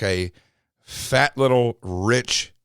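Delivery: slow and halting, holding back a word; slow hesitant. Real, not acted. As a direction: drag it out while searching for a safer word. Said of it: "I don't wanna say the word I was about to say".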